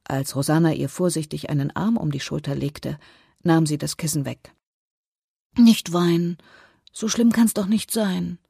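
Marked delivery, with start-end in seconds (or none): 5.6-8.4 mildly pleading, higher-pitched consolation; comforting. A narrator's reading. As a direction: gently console a crying sister. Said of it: "versuchte Rosanna, ihre Schwester zu trösten". (tröstend, etwas höher)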